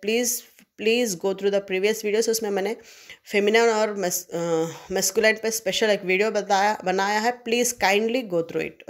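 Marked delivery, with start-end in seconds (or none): 0.1-2.3 slow, drawn-out pleading request; slow plea. Real, not acted. Teacher pleads to watch videos. 7.4-8.9 slow, drawn-out pleading request; slow plea. Real, not acted. Teacher pleads to watch videos.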